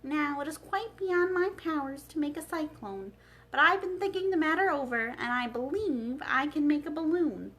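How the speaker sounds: a hint of a thoughtful old wizard; Oz's voice. The wizard shares his balloon plan with Dorothy, lightly voiced.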